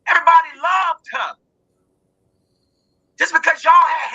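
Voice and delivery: angry rant. Real, not acted. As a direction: lash out at the parents with real fury. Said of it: "I am so angry".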